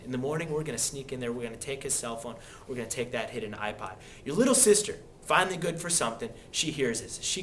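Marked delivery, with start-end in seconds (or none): 0.0-3.9 hushed, softer scheming tone; parents whispering. Retold or imitated. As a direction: plot quietly so the kid won't hear. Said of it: "And they're whispering".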